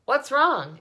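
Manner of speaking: loud, high alarmed question; alarmed call. A narrator's reading. Loudspeaker alarmed as the pig faints, loud. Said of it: "asked the loudspeaker".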